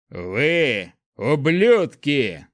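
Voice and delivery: loud, slow, drawn-out roar; furious roar. A narrator's reading. Prince charging at the mob, furious roar. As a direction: roar the insult at them. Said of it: "заревел он".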